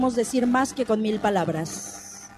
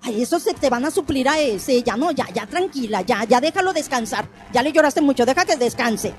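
comforting platitudes. Pretend. Acted platitudes to grieving mother.

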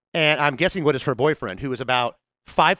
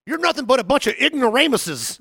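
mock yell; 9 semitones higher, 3 dB louder than usual. Mom yelling retold, laughing.

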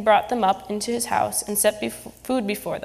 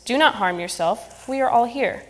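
loud cry; 3 semitones higher, 4 dB louder than usual. Acted. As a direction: call out to stop him, steady and loud. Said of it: "cried with a loud voice".

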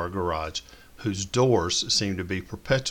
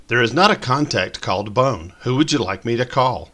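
higher, louder mock assistant voice; mock digital assistant; Siri voice; 4 semitones higher, 6 dB louder than usual. A narrator's reading. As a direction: play the phone's polite robot. Siri answers wrongly.

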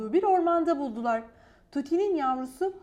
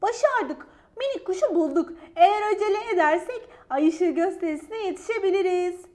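bright, laughing joy; happy, laughing; 5 semitones higher, 6 dB louder than usual. A narrator's reading. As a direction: laugh through the words with relief. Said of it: "Gece mutlulukla gülümsedi".

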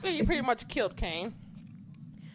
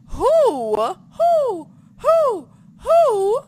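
rising high repeated who; teasing build; 13 semitones higher, 8 dB louder, much slower than usual. Acted. Quizzing Taylor on the champion, teasing high calls. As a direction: tease the answer out, higher each time.

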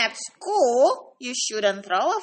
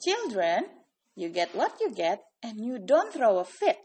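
teacher voice; 3 semitones lower, 7 dB quieter than usual. Acted. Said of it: "his teacher's favorite rule".

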